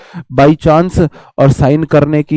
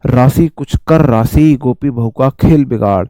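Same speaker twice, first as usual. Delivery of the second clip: scheming daughter-in-law; 5 semitones lower than usual. Retold or imitated. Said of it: "मैं आपको बोल के बता रहा हूँ".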